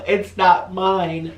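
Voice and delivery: slow, high, drawn-out sulky whine; mock sulky whine. Bird owner sulking beside partner, in a slow whiny mock sulk. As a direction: stretch it out like a pouting child. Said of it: "I'm over here like".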